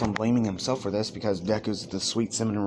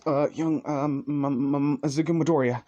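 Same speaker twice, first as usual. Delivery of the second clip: higher stammering, tripping over every word; nervous stutter; 5 semitones higher than usual. Acted. Nervous fan stutters to All Might, tripping over words. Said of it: "as he's really nervous".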